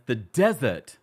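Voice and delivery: lightly put-on English accent. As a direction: attempt an English accent on the tagline. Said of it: "let me not do an English accent".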